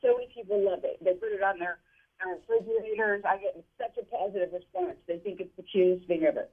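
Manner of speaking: muffled phone line; underwater. Real, not acted. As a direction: voice bubbling through water. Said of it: "your phone sounds like it's underwater".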